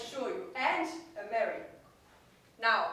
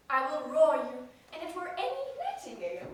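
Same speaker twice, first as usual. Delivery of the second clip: gentle roar; 3 semitones higher, 4 dB louder, faster than usual. Acted. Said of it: "I will aggravate my voice".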